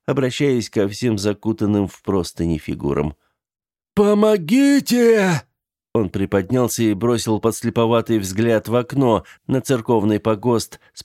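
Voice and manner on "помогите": high, slow, loud help cry. Acted. The dying old man screams for help, high and slow. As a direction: wail for help across the room.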